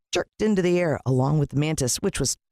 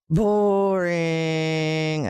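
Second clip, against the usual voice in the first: bored brush-off. A narrator's reading. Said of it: "I said".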